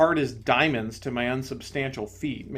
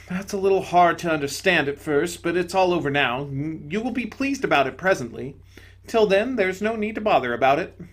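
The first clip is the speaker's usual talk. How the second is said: higher, gentle spirit voice; serene bright spirit; 4 semitones higher, 4 dB louder than usual. Acted. Bright spirit to the ghost, higher and gentle. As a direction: soothe him from above.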